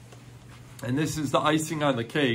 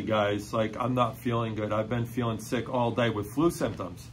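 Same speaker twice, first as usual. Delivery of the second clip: put-on sick girl; 4 semitones lower, 5 dB quieter than usual. Sick girl insists seriously.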